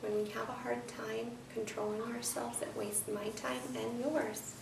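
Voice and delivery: slow, soft, stern words. Real, not acted. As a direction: scold slowly and quietly. Teacher scolds slowly.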